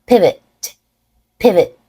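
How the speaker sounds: released T at the end of "pivot"; true T. Shown as a demonstration. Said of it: "say it with a true T".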